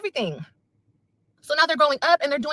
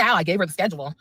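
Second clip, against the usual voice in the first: mocking her ex; 8 semitones lower, faster than usual. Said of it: "So you can turn around and say".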